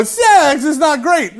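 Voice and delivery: high, slow nasal mimicry; hammed-up whine of an awkward announcer; whiny nasal voice. Student at the pulpit after mass, whiny nasal voice. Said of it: "nasally voice".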